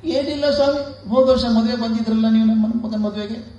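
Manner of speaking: mock a weeping father complaining; crying old father. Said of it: "ಅಳೋದು". (ಎತ್ತರದ ಸ್ವರದಲ್ಲಿ ಅಳುತ್ತಾ ಗೋಳಾಡುವ ತಂದೆ)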